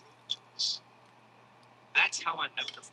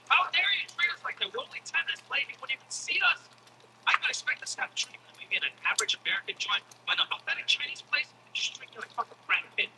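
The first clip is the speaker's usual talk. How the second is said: higher, indignant mock tirade; mock outrage, read aloud from the email; mock angry email; 7 semitones higher than usual. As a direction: rant like a wronged customer, hammed-up. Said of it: "an angry email".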